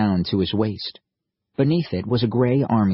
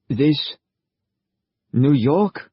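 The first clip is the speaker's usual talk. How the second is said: astonished; 5 semitones higher, 3 dB louder, slower than usual. A narrator's reading. Soldier surprised.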